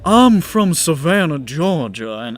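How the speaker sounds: Southern accent. Shown as a demonstration. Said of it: "It's difference between".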